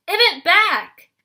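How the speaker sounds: high, very loud, slow drawn-out yell; furious hag repeating her demand slowly. A narrator's reading. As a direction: drag out each word in rage.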